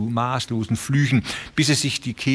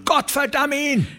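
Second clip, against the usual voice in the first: much higher, strained cry; furious curse. A narrator's reading. A rancher cursing Shelgram, a much higher furious cry. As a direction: spit the curse out.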